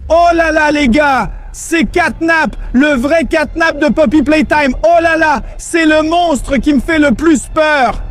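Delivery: shouting with thrilled fright; excited shouting. Acted. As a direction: yell it out, half scared, half thrilled. Finds Catnap, yells excitedly.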